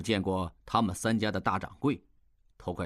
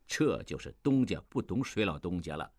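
laughing; 4 semitones lower than usual. Acted. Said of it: "潘维言笑道".

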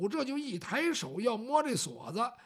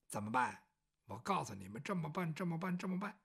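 much lower and softer, plotting; low scheming murmur; 6 semitones lower, 7 dB quieter than usual. Acted. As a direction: lay out the plot under your breath. 公子低声布置诡计. (低沉阴险地小声吩咐)

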